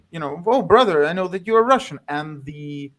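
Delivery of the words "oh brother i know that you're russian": Tatar's greeting. Retold or imitated. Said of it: "In fact, he says".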